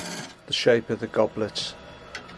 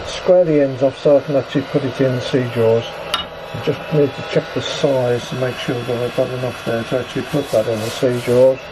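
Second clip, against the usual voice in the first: speaking through a protective mask; muffled, behind a full face shield. Real, not acted. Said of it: "My apologies for the slightly muffled commentary".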